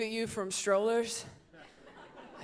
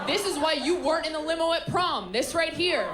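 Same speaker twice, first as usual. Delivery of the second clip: mock rant at Becky; 4 semitones higher, 4 dB louder than usual. Scolding Becky on the trip.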